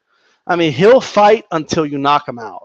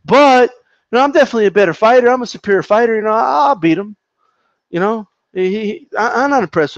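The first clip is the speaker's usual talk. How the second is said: mocking Ortiz; 4 semitones higher than usual. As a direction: sneer his fake praise of Maidana. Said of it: "And then here comes the but".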